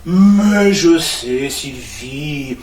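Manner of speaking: drawn-out mais je sais, loud and slow; snapping back at Sylvie, slow and loud; exasperated. Real, not acted. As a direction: stretch it out, fed up. Annoyed retort on phone.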